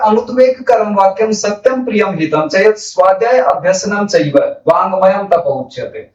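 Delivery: measured chant of a Sanskrit shloka; श्लोक का सस्वर पाठ; verse recitation. Acted.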